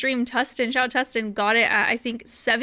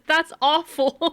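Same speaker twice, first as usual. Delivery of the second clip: slow, louder mock dismay; hammed-up, drawn-out sympathy from a game character; 5 semitones higher, 3 dB louder, much slower than usual. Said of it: "the N P C said".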